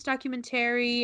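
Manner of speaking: "documentary" with a full "-TERRY" ending; odd pronunciation. Retold or imitated. Quoting the guy in class, odd pronunciation. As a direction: imitate him saying "documentary" as "docu-men-TERRY". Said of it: "kept pronouncing documentary really weird".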